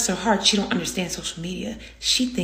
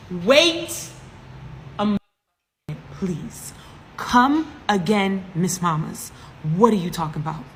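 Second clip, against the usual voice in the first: acted disbelief; slower than usual. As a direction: stretch the words out in stunned disbelief. Disbelieving reply to her mother.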